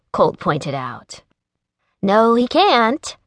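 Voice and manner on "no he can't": bright, higher and slow, teasing; a cheerful little tease. Acted. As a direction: chirp it out happily. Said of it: "Brenna said cheerfully".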